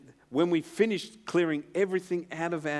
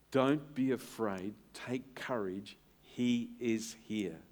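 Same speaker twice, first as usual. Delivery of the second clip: slow soft reassurance; 4 semitones lower, 5 dB quieter, slower than usual. Shown as a demonstration. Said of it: "repeats words slower and softer".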